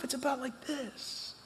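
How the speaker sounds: whispered for effect, dropping to a hush; a sudden whispered this. Real, not acted. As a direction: breathe the word out, no voice. Pastor's hushed punchline point.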